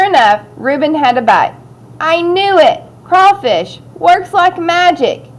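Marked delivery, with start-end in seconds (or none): 2.0-5.3 high, thrilled exclamation; excited. Acted. Young scout who just got a bite, excited. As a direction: crow with excitement in a higher pitch.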